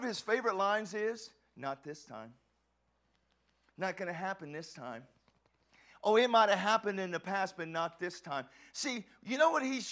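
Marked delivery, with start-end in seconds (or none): 1.5-8.5 hiss-free sly whisper of the devil, lightly voiced; taunting devil.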